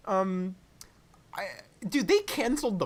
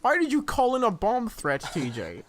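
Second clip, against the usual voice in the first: put-on old man voice; 3 semitones higher than usual. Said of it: "That old man voice is just on point".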